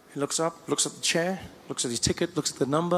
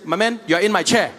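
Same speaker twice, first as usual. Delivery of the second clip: straight-to-the-point mock confrontation; firm, matter-of-fact challenge; blunt South African; 4 dB louder than usual. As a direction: say it blunt and direct, no softening. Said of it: "South Africans were blatant, we go straight to the point".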